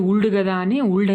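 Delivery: "వుల్డ్" with the L pronounced; "వుల్డ్" read as spelt, L included; mispronunciation demo. Shown as a demonstration. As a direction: sound out the L in "వుల్డ్". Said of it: "వుల్డ్ అని పలకకూడదు".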